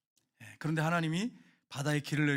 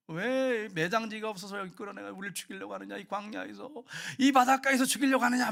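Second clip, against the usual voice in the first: complaining protest. Acted. Israelites blaming their leader by the sea, complaining. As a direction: grumble it out as an aggrieved crowd. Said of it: "이스라엘 백성들이 막 원망 불평하잖아요".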